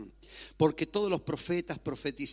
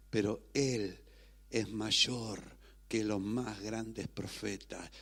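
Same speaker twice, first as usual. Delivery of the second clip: calm assurance; 3 semitones lower than usual. Acted. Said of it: "Jesús y dice, Shh, tranquilos".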